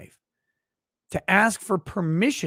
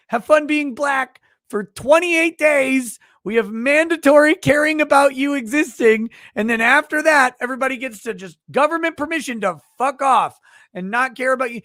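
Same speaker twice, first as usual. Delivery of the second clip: sarcastic benevolent leader; 4 semitones higher, 4 dB louder than usual. Pretend. Mock leader grandly telling Black people they're welcome. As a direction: hand out the month like a royal favor.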